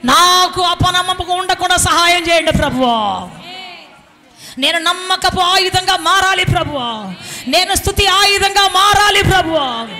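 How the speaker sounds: sustained plea called out to the Lord; crying out aloud. Shown as a demonstration. Preacher leads congregation praying against unbelief, crying out aloud. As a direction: model a loud prayer for others to follow. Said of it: "బిగ్గరగా చెప్పాడు".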